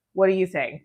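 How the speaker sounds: ordinary talk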